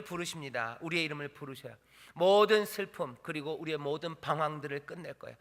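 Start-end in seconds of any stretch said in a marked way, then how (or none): 2.1-3.2 loud, higher, drawn-out proclamation; emphatic preaching. Real, not acted. Preacher promises an end to sorrow, loud and emphatic. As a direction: stretch the words out at full voice.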